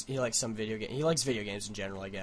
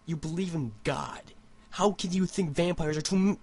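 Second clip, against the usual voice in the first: higher, disbelieving inner rant; incredulous thought; 7 semitones higher, 5 dB louder than usual. Retold or imitated. Vlogger replays his unspoken reaction to coworker, higher incredulous. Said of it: "in my head where I was like".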